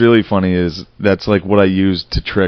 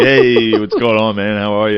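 sweet talk. Retold or imitated. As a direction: charm the server for extra food. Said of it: "sweet talk the people".

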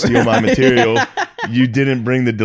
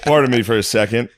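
laughing while imitating; 3 semitones higher, slower than usual. Voicing kid, laughing.

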